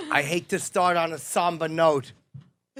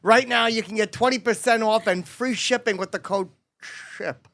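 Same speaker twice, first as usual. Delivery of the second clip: ad read. Acted. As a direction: read it like a host ad spot. Ad read for sponsor.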